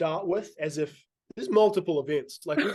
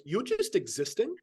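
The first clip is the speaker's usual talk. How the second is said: higher, slow, rising incredulity; retold disbelief; 3 semitones higher than usual. Retelling a reply to needless apologies, incredulous. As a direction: draw it out, baffled by the apology.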